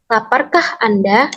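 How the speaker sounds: slow "Laparkah Anda?" rising at the end; question intonation. Shown as a demonstration. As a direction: draw it out and lift "Anda" into a question. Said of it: "intonasi yang bertanya sehingga nada akhirnya naik". (intonasi bertanya, nada naik di "Anda")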